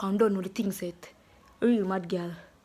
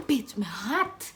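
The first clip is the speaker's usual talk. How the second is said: whispering; slower than usual. Real, not acted. Whispered complaint about heat.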